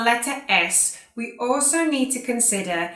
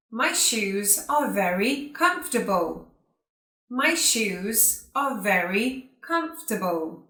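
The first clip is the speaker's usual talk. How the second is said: careful, spaced-out words with pauses between phrases; repeat-after-me model. Shown as a demonstration. Teacher saying sentences for students to repeat, carefully enunciated. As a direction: enunciate each word for learners to copy. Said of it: "like you to repeat after me".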